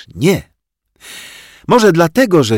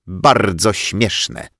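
slow, cold, dragged words; drawn out through teeth; much slower than usual. Acted. Headmistress coldly answers the laughing teacher, slow. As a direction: spell out each syllable coldly. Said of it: "wycedziła pani dyrektor".

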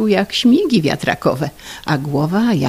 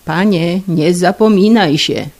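a touch louder rebuke; husband rebuking a mocking friend, lightly raised; mild mock bark; 5 dB louder than usual. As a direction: tell him off, half-hearted. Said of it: "huknął Pafnucy".

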